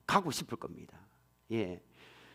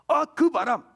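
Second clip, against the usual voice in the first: awed exclamation; 8 semitones higher, 5 dB louder than usual. Acted. Preacher evokes mighty wind.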